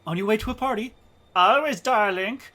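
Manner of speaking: high, loud, over-the-top fake German; party-mad German, hammed up; terrible German accent. Party guy boasting to travellers in a terrible German accent. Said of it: "That's a terrible accent".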